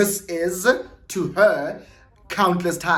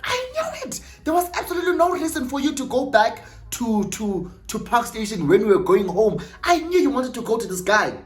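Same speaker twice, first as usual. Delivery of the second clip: high-pitched indignant outburst; angry accusation; 7 semitones higher than usual. Retold or imitated. Lady confronts Siyabonga as she reaches them, angry accusation. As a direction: shriek it first, then rush on accusingly.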